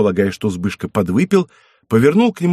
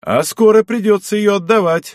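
high, raised exclamation; exclaiming; 9 semitones higher, 3 dB louder than usual. A narrator's reading. Zbyszko teasingly exclaims to Zych, high. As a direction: call it out teasingly. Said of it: "воскликнул Збышка".

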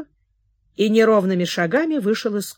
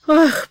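high, louder anguished "ah"; anguished sigh; 8 semitones higher, 5 dB louder than usual. Acted. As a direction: break out in longing. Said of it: "с тоской". (тоскливое «Ах!»)

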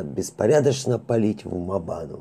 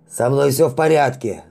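raised, urgent call over the radio; loud shout; 5 semitones higher, 4 dB louder than usual. Acted. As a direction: shout to be heard. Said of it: "громко выкрикнул Вабана".

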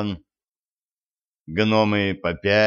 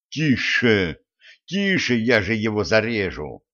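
pleading. A narrator's reading. Captor begs his companion to ease off, pleading. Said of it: "взмолился Олег".

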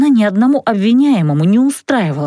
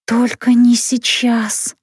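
silent pleading; much slower than usual. Acted. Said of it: "мысленно взмолилась я".

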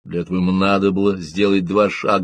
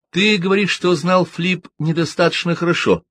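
lightly voiced woman; 10 semitones higher than usual. A narrator's reading. Siobhan questions the witness.

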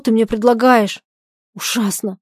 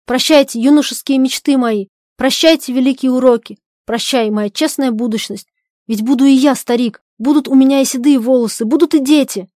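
louder mournful farewell; in despair; 3 semitones higher, 5 dB louder than usual. Acted. Husband farewells his youthful ideals in despair. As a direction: bid your dreams goodbye in despair. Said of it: "С отчаянием".

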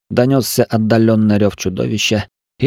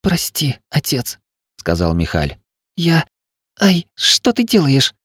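put-on higher boyish voice, apologetic then startled; young son; 6 semitones higher than usual. The injured son apologises to his father, higher boyish voice. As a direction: play the hurt boy. Son's voice in story.

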